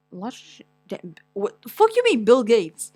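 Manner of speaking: ordinary talk, nothing marked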